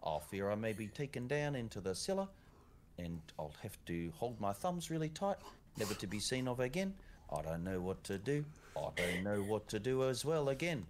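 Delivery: put-on Irish accent. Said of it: "my Irish accent is as good".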